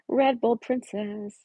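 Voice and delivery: drawn-out name. Real, not acted.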